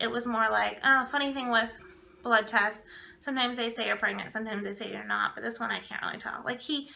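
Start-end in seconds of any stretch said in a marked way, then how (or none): 0.8-6.4 imitating an offhand, rude doctor; no emotion. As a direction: deliver it with no emotion, dropping off toward the end. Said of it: "no emotion".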